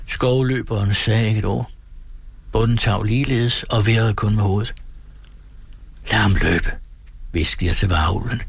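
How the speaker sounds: steady storytelling read for the radio; story narration. A narrator's reading. Narrator reading Turgenev to radio listeners, measured storytelling. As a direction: read the tale aloud to listeners, evenly.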